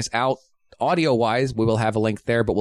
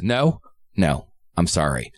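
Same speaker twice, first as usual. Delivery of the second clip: mock apology; 5 semitones lower, slower than usual. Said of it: "he comes back and he goes".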